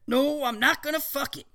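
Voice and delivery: teacher voice. Acted. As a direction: ask like a keen scientist.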